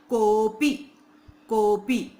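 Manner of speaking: कोपी with को pushed hard, then पी; stress on को. Shown as a demonstration. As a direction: lean on को in कोपी. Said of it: "को पे हमें क्या करना है, जोर लगाना है".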